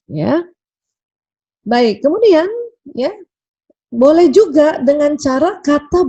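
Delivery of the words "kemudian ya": ordinary delivery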